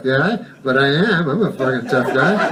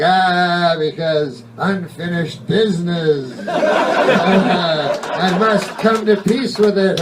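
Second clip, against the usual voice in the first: hammed-up whiny ghost; 3 semitones higher, slower than usual. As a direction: moan it like a sulky ghost.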